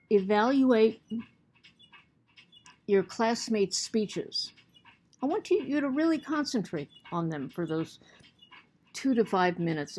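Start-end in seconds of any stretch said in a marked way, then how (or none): 5.2-10.0 talking through hiccups; speaking with the hiccups. Real, not acted. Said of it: "I have the hiccups".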